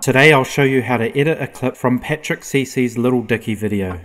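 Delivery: light studio reverb. Shown as a demonstration. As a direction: voice with a gentle room echo. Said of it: "The second layer will have a voice mimicking a tweet".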